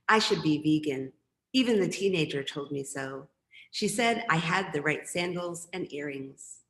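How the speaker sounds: measured, deliberate verse delivery; composed recital to an audience; poetry reading. Acted. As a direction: read it as a poem, pausing after each line. Reads second poem aloud.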